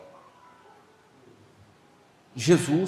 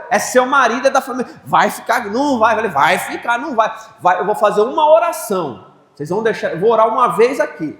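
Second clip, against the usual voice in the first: firm insistence; 8 semitones higher, 6 dB louder than usual. Retold or imitated. Insisting with the family.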